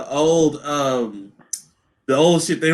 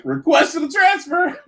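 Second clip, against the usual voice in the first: mock formal request; 10 semitones higher than usual. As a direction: blurt it like a formal demand. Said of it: "That nigga gonna be like".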